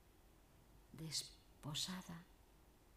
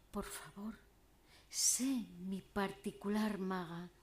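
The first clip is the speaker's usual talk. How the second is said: elegiac declamation. Acted. Troubadour begging his beloved Siana to marry him, elegiac declamation. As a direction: declaim it as a lovelorn troubadour's entreaty. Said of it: "declamando poesía elegiaca".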